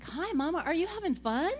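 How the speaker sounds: put-on high little-girl voice, questions lifting up; sweet pretend preschooler, pitched well up; young daughter. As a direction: imitate a small child on the phone to Mama. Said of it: "She's like".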